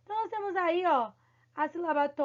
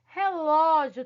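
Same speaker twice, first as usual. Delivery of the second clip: "Relógio" with a loud, open Ó; stress on LÓ; 7 dB louder, slower than usual. Shown as a demonstration. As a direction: hit the LÓ hard in "Relógio". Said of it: "que é um acento mais aberto". ("Relógio" com ênfase forte no LÓ aberto)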